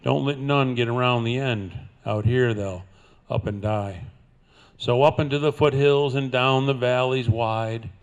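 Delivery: ordinary delivery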